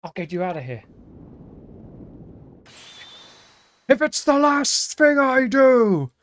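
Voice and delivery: a hero swearing to save her no matter what; superhero voice. Acted. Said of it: "stuck doing the superhero voice".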